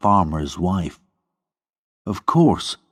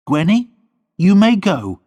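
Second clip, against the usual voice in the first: higher, cold dismissal; quiet anger; 12 semitones higher, 5 dB louder than usual. A narrator's reading. Lorna sending Gwenny away in controlled anger. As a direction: dismiss her with restrained anger. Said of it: "her voice full of quiet anger".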